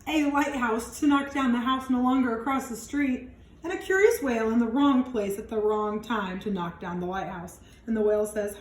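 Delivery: put-on lively read-aloud for young kids; expressive picture-book narration; storybook reading. A narrator's reading. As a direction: read it out like storytime for little ones. Reads picture book to children.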